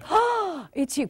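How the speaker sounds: delighted greeting. Shown as a demonstration. Speaker demonstrating for the audience, delighted. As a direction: show them they matter. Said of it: "you're gonna say".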